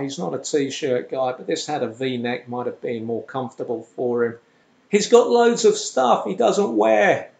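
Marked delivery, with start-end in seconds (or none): 4.9-7.3 voicing the aunt higher and louder; a lightly voiced, higher-pitched aunt; aunt's voice. Aunt voiced in retold call.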